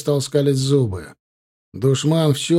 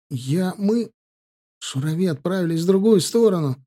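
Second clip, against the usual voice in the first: breathed out; 6 semitones higher than usual. Acted. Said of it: "выдохнул Кабиль".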